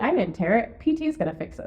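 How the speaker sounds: forced optimism. Retold or imitated. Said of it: "I was like".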